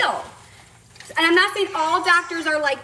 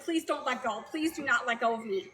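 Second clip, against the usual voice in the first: much softer, understated begging; retold plea; 9 dB quieter than usual. Patient begging the nurse not to let go, quiet retold plea. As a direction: plead quietly, as if retelling it. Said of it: "I was grabbing onto her hand".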